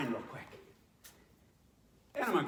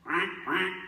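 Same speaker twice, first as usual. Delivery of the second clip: duck voice; 5 dB louder than usual. Shown as a demonstration. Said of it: "A duck?".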